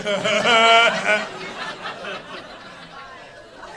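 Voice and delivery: long hammed-up mock laugh; acted laugh. Comic acting relief at good news, mock laughing. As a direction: keep a put-on laugh rolling. Acts out own reaction to dude.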